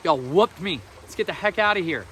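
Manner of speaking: loud, defiant folksy jab; Paul's loud retort. Retold or imitated. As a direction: shout it back at the crowd like a beaten man rising. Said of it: "was like".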